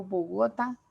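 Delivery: Bogotá wrongly stressed on the middle GO; Bogotá with the weight on its second syllable; misplaced stress. Shown as a demonstration. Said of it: "Yo no digo".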